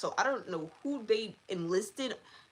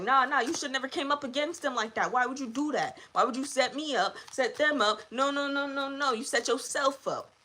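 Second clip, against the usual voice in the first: higher, scolding spirit shaking its head; scolding demon; 4 semitones higher than usual. Retold or imitated. Dark entity scolding the summoners, higher and chiding. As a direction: play a demon telling them off. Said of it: "they like".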